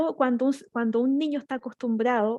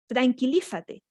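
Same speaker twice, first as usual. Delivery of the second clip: adulto gritando; 3 semitones higher, slower than usual. Retold or imitated. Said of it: "gritando o descontrolado".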